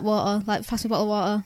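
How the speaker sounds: "water" tossed off low and loose; casual pronunciation. Acted. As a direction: say "bottle of water" casually, not properly. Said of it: "pronounce my words properly, but".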